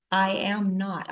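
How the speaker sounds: slow, deliberate "am not"; stress on AM NOT. Retold or imitated. Refusing to align with offense, "am not" stressed slowly. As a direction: spread out "am not" firmly. Contrasts being with feeling.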